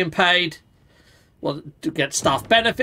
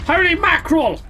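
high, loud burst of surprise; surprised exclamation; 12 semitones higher, 4 dB louder than usual. Real, not acted. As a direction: blurt it out in shock. Spotting a crowned fish.

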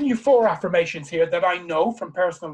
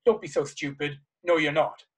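scornful inner voice; 3 semitones lower than usual. Pretend. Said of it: "it will say".

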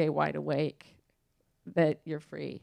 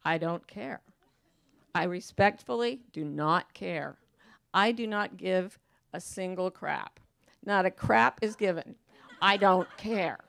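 breezy indifference. Retold or imitated. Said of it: "I just look at them and I say".

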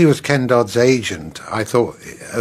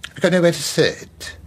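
Larry Grayson; 7 semitones higher than usual. Retold or imitated. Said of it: "as Larry Grayson looking at them".

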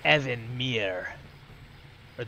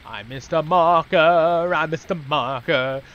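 loud dismay; 4 semitones higher, 13 dB louder, slower than usual. Real, not acted. Dismayed realisation, repeated.

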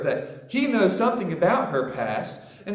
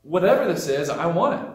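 eager, excited; 6 dB louder than usual. Retold or imitated. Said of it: "And she's like".

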